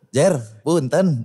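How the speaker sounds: slow, laughing, sugary borrowing plea; mock sweet plea. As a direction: sweet-talk a friend for a loan, half laughing. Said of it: "Pakai suara gue".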